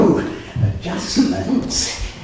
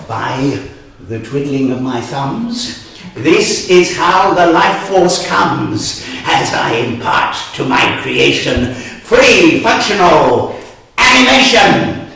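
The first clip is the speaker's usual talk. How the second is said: activation spell; 2 semitones lower, 4 dB louder than usual. Acted. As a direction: declaim a magic spell grandly.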